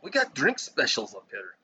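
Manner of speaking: lightly mocked Minnesotan accent; put-on Minnesotan accent. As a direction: imitate a bar worker with a Minnesotan accent. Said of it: "with that accent".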